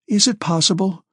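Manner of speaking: high, shocked exclamation; exclaiming. A narrator's reading. Anna hearing the count is dying, exclaiming in surprise. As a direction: gasp it out in disbelief. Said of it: "exclaimed Anna Mikhailovna".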